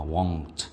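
won't, a low, careful repeat for learners; careful won't pronunciation. Shown as a demonstration. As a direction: quietly repeat won't with its rounded vowel. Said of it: "이게 되게 중요한 발음입니다".

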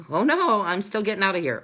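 playful mock defiance; defiant crab. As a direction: refuse to be held back. Voicing the determined escaping crab.

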